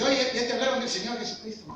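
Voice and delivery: a light northern Mexican Chihuahua twang, bright and eager; young Chihuahua preacher with a mild northern accent, cheerful invitation. Retold or imitated. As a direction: play the blond young man from Chihuahua inviting you in, with his Chihuahua accent. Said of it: "con acento así como de Chihuahua".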